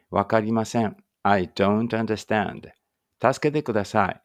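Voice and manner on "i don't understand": slow, clear teacher model; slow model phrase. Shown as a demonstration. Teacher models for learners to repeat, slow. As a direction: say each word slowly for the class. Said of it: "もう一回繰り返し言ってください".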